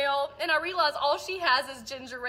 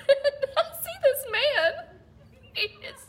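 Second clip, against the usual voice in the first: laughing; 10 semitones higher than usual. Real, not acted. Retelling funny moment, laughing.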